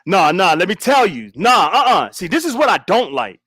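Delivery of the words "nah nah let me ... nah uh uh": angry voice. Shown as a demonstration. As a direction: try the anger again, harder. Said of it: "let me see if I can flip it up".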